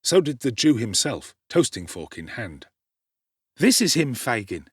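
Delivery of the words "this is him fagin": high, loud cocky street lad; Dodger presenting. A narrator's reading. Dodger presenting Oliver to Fagin, cocky. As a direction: present him with a flourish. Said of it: "said Jack Dawkins".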